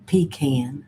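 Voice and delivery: pecan said as 'PEE-can'; long 'ee' then short 'a' in pecan; another's pecan. Retold or imitated. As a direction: say pecan to rhyme with 'see van'. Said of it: "She also says".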